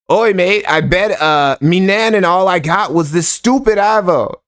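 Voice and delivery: amateur mock British-Australian accent; bad British-Australian accent. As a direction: attempt a British or Aussie accent and do it badly. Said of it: "I can't do an accent".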